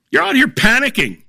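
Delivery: high-pitched acted exclamation; incredulous high pitch. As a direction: pitch it high, mimicking the fuss. Retelling Jesus and the panicking disciples.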